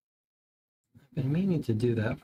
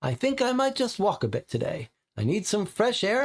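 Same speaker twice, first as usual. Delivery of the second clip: lady quoted; 8 semitones higher than usual. Retold or imitated. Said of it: "she just said".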